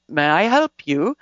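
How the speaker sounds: put-on slow Australian-accented offer, lifting at the end; attempted Australian accent. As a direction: imitate an Australian, drawn out with a rising finish. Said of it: "says in an Australian accent".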